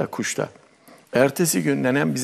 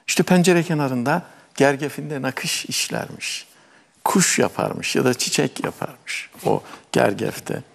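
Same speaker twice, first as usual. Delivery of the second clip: fairy-tale narration. Acted. Begins telling grandmother's fairy tale.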